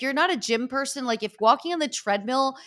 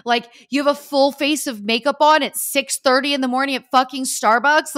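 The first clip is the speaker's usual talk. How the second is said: incredulous retold disbelief; 3 semitones higher, 5 dB louder than usual. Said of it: "I was like".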